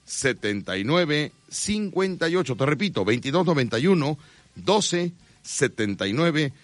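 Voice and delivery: steady announcer sales voice; live radio ad read. Acted. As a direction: sell the doctor to listeners. Reads sponsor ad.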